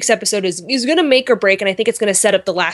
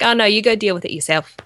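a half-hearted attempt at Australian; barely-there, unconvincing Australian accent; bad Aussie accent. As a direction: slip loosely into a poor Aussie accent. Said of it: "was that your Aussie accent".

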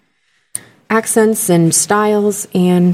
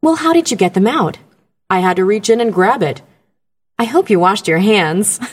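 voiceover dialogue read. Retold or imitated. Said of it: "The end of it was even better".

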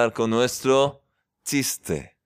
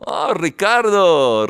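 loud, drawn-out, higher-pitched call; delighted greeting; 5 semitones higher, 5 dB louder, much slower than usual. Real, not acted. Host spotting the guitarist arriving, delighted surprised greeting. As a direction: call out the name in happy surprise.

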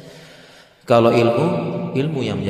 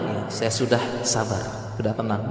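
mock calm; 4 dB quieter than usual. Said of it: "sejam tersebutnya tenang".

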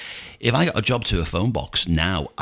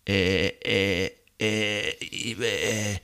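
mock stammering bleat; 5 dB quieter, much slower than usual. Passenger stalls when asked for money.

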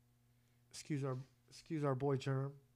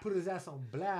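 laughing; 4 semitones higher, 4 dB louder than usual. Real, not acted.

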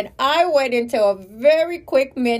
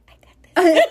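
higher, louder and laughing; laughing reassurance; confident brush-off; 7 semitones higher, 8 dB louder than usual. Retold or imitated. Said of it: "Like, I literally said".

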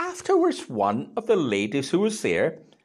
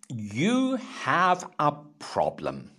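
slow, deliberate; much slower than usual. Retold or imitated. Paul's letter voiced, weighty pacing.

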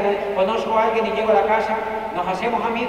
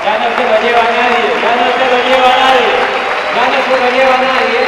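louder, fast, triumphant; triumphant shout; 3 semitones higher, 10 dB louder, faster than usual. Acted. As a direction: shout it out like a victory cry. Triumphant repeated proclamation.

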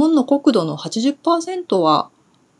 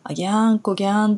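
Kumamoto dialect; much faster than usual. Shown as a demonstration. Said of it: "って言ったのは".

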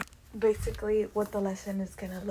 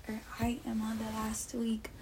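whisper; 5 dB quieter than usual. Real, not acted. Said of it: "Oh, I do, today's again".

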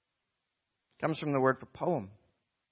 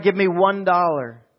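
raised voice calling for a bid; auctioneer's cry; 6 semitones higher, 12 dB louder, slower than usual. Acted. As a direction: call out to bidders as the auctioneer. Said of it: "And then he cried".

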